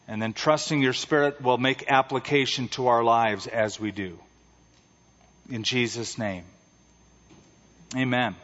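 a lightly hushed pastor's prayer. Acted. Opening prayer.

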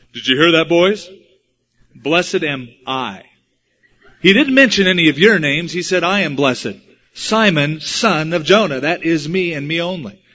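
mock self-important crowing to the others; grandiose boasting. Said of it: "it made him feel so grandiose".

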